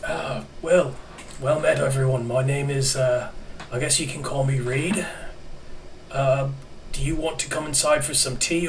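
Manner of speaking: put-on hosting old man in a Kiwi accent. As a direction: offer the tea in a New Zealand lilt. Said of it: "gotta find my Kiwi accent".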